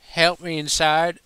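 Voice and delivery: high, loud, mock-coy request; coy plea. A narrator's reading. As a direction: bat your lashes with your voice. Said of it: "best imitation of a coy smile".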